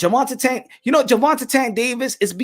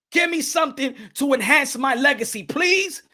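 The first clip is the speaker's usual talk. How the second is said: imitating Tank Davis. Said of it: "it's time for Gervonta Tank Davis to tell Floyd Mayweather".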